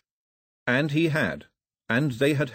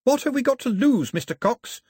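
high, raised shout; 14 semitones higher, 4 dB louder than usual. A narrator's reading. Daphne taunts Cox above the hubbub, high shout. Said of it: "Daphne shouted above the hubbub".

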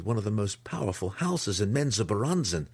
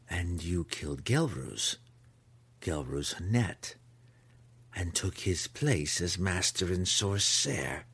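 snarl. Acted. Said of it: "her voice a snarl".

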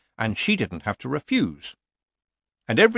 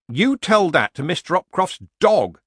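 higher, louder villager voice playing innocent; nervous villager; 8 semitones higher, 6 dB louder than usual. A narrator's reading. Villager pretending innocence to Nanny Ogg. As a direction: feign surprise like a bad amateur actor.

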